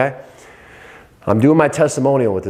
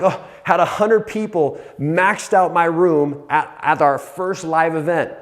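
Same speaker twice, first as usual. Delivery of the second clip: pumped self-talk; 5 semitones higher than usual. Retold or imitated. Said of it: "I'm like".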